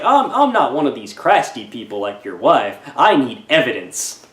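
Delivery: P=A; bad Italian accent. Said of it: "I'm doing a bad Italian accent there".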